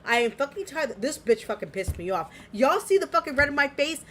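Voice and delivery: normal talking voice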